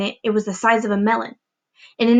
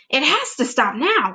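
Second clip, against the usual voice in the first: mild excited yell; 4 semitones higher than usual. Acted. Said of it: "Aunt Spiker yelled".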